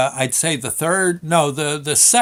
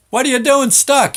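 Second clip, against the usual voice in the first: foreman yelling; 11 semitones higher, 6 dB louder than usual. Retold or imitated. Foreman shouting up the shaft.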